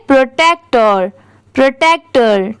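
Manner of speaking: प्रोटेक्टर said quickly in one smooth go; at normal speed. Shown as a demonstration. Teacher reading the word at full speed for her students. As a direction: run प्रोटेक्टर together at speed. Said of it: "अब इसे साथ में speed में पढ़ेंगे".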